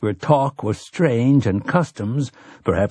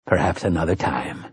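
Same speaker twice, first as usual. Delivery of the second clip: gentle refusal; 3 semitones lower than usual. Acted. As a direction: let him down gently. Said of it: "Callahan said gently".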